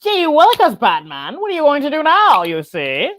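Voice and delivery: high, fast prissy villain; a lightly prissy cartoon baddie. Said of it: "prissy villain voice".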